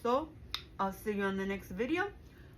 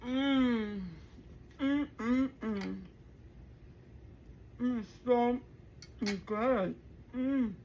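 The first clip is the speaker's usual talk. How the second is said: blissful; much slower than usual. Real, not acted. Tasting the food.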